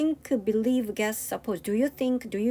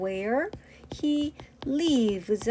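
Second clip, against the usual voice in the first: hushed whisper of the wrong word order; "Where he lives?" whispered under the breath as the wrong answer; whispered wrong version; 2 semitones higher, much slower than usual. Shown as a demonstration. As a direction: whisper it like a mistake to avoid. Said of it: "근데 이게 아니래".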